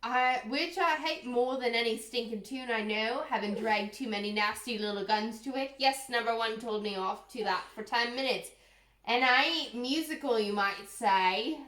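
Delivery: put-on botched English accent veering into pirate; attempted English accent gone astray; pirate-sounding English accent. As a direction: read in a muddled mock-English, piratical accent. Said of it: "it sounded like pirate".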